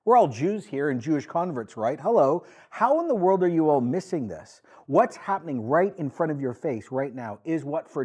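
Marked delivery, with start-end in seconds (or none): 0.0-6.9 exasperated. Acted. Peter scolding the crowd.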